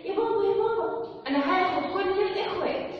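a hint of a girl pleading to daddy; little girl. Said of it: "طيب البنوتة قالت إيه؟". (بنوتة صغيرة بصوت أعلى شوية)

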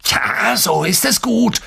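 high, jeering false praise; mocking. A narrator's reading. Coach sneering at the player looking up, mocking. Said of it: "spottete Böckmann".

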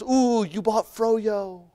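slow, drawn-out cheery clerk voice imitating the loyalty scanner; lightly hammed store clerk, stretched out slowly; mock cashier.

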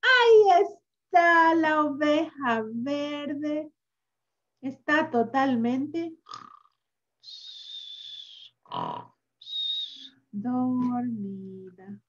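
slow reveal fading to sleepy; slow down as it falls asleep. Acted. Found the green sheep, sleeping.

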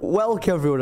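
"welcome" clipped to "welk" before "everyone"; slurred welcome. Retold or imitated. Editor cites host's habit, "welcome" slurred into "welk-everyone". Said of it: "I spot all the time".

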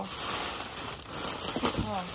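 slow breathy whisper of It's a haul. Real, not acted. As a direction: whisper haul slowly, savouring it. Repeats word in whisper.

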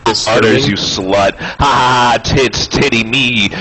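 put-on goofy caveman baby voice; silly clown.

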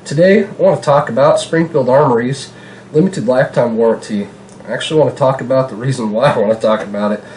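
blocked nose from a cold; stuffy nose. Real, not acted. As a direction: talk through a stuffed-up nose. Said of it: "sorry if I sound a little stuffed up in the nose".

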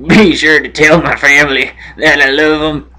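lightly acted last transmission, low and halting; mock-solemn goodbye from a falling astronaut; doomed astronaut farewell.

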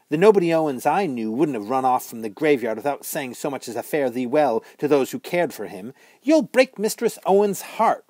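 put-on high, loud ghost girl scolding; a sharp young witch needling the boy. A narrator's reading. Ghost girl chiding Bod for running away, high mocking voice.

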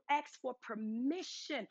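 each word drawn out slowly; slowed down. Shown as a demonstration. Preacher slowing down so the congregation won't read too fast. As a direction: let the congregation catch every word. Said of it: "don't read that too fast".

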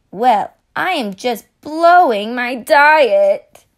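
loud, slow mock confession; hammed-up guilty party guest; guest confessing. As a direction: announce the diet slip slowly and loud. Guest comments at the feast.

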